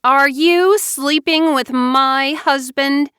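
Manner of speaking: high, loud, slow accusing question; 愤怒地质问妹妹. A narrator's reading. Wife confronting her sister.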